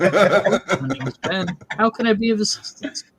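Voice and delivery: mock phone rep. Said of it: "Cable disconnect".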